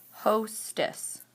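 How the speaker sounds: hostess pulled apart into ho and stess; split by syllable. Shown as a demonstration. Teacher sorting words by syllable, hostess split in two. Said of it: "break the word into chunks".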